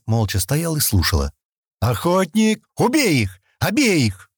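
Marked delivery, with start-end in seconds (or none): 1.8-4.3 much higher, commanding shout; sudden shout. A narrator's reading. Harsh shouted order. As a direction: Stan orders the Hunter to kill them, shouting. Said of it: "вдруг крикнул Стэн".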